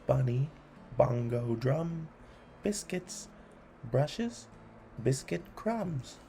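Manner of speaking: brisk rhythmic listing; poem reading. A narrator's reading. Host reading a list poem to kids, brisk and rhythmic. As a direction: tick off each item with relish.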